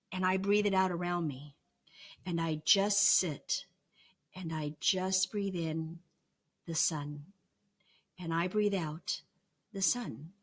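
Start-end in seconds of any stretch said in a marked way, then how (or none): 2.2-10.3 unhurried, hushed breathing-in-the-sun cadence; meditative calm. Shown as a demonstration. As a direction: breathe each phrase out slowly like a guided meditation. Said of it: "a point of nothingness".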